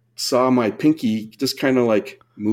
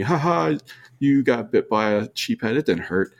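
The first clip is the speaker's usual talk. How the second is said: mocking. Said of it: "laughing at me".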